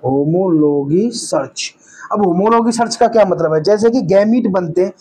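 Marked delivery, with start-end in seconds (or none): 0.1-1.8 lower, drawn-out syllables; slow dictation. Real, not acted. Teacher writing out a key term, slow dictation. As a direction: break the term up slowly for writing.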